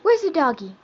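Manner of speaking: loud, high, bright prompt to a pet. Real, not acted. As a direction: ask eagerly to coax a bark. Prompting the bird to bark.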